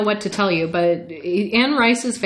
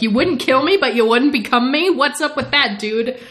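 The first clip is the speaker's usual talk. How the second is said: higher, mock-offended protest; indignant complaint; 5 semitones higher than usual. Lestat challenges Talbot's two refusals, higher mock indignation. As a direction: protest as if absurdly snubbed.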